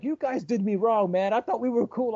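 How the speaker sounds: a hint of a wounded friend; mock hurt whine. Terrence complaining to the comedians, mock hurt. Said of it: "he was like".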